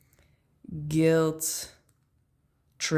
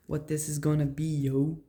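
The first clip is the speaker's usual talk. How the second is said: ordinary talk, nothing marked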